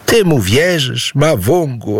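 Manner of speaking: high-pitched, indignant challenge. A narrator's reading. Aboe challenges Mawungu for believing his son, indignant. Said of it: "oburzyła się Aboe".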